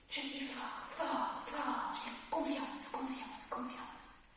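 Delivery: talking while holding breath; strained words on held breath. Real, not acted. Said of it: "je bloque ma respiration".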